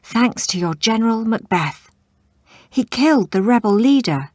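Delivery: a wounded warrior gasping out good news, loud and high. Acted. Wounded warrior gasps the victory news to the king, breathless. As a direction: push the words out between gasps. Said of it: "the warrior gasped".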